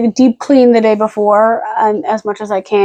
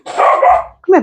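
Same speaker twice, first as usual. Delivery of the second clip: high whispered come here; hushed coax to a pet; 8 semitones higher than usual. Real, not acted. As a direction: gently call the dog over. Calling the dog close.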